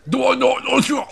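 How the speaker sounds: high, loud hammed-up Irish accent; put-on Irish accent. Streamer answering the game character, high mock Irish accent. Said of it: "you're talking in an Irish accent".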